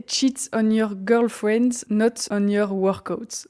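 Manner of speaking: slow, careful English with a French accent. Real, not acted. Vlogger reading out the poster's slogan, French-accented English. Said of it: "Mon accent anglais est".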